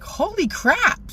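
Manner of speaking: high, slow drawn-out relief; holy crap. Retold or imitated. Saying to her son after the cop leaves, relieved. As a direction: stretch it out in disbelief. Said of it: "I'm like".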